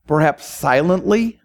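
measured pastoral prayer with long pauses. Real, not acted. Preacher asking God to use the congregation in his harvest, prayerful. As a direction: pray aloud, phrase by phrase, unhurried at the ends.

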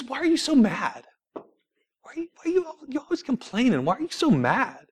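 high, soft imitation of mom; gently puzzled mother, voice lifted and hushed; calm questioning. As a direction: ask it softly and high, no aggression. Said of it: "she said this very calmly".

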